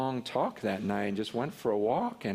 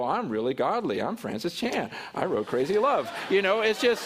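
mock boast; 5 semitones higher than usual. Mocking his own pride.

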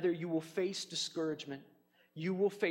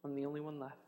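discouraged Elijah. Retold or imitated. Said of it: "he gets so discouraged that he says".

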